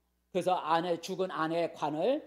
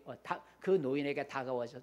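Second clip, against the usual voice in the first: ordinary delivery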